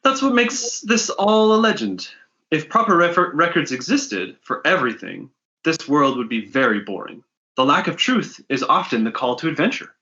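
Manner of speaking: npc voice. Acted. Trinks voiced by S1.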